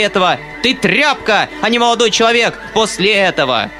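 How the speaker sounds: high, angry tirade at her son; scolding her son. A narrator's reading. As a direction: berate the son with contempt. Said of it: "продолжала она вопить, набрасываясь на сына". (мать в ярости отчитывает сына)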